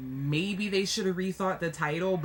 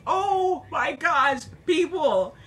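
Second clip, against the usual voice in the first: slow, louder cry of disbelief; exasperated shout; 7 semitones higher, 5 dB louder, slower than usual. Retold or imitated. Vlogger reacting to people who never read it, exasperated shout. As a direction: throw up your hands at everyone. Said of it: "I'm just like".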